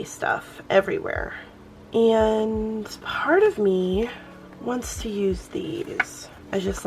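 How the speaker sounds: soft, slow whisper to herself; half-whispering as she works; muttered under breath. Real, not acted. Crafter thinking aloud over her spread, softly whispered.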